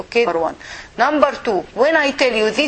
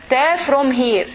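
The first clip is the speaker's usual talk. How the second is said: ordinary delivery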